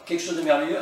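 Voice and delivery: delighted title. Shown as a demonstration. Vlogger proudly presents the rare song to fans, excited. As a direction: present the title like a treasure, pitch up. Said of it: "et voilà".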